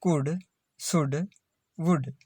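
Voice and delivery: कुड, शुड, वुड with short "u" straight into D; silent L. Shown as a demonstration. Teacher repeating examples for learners, कुड, शुड, वुड with silent L. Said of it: "एल silent है".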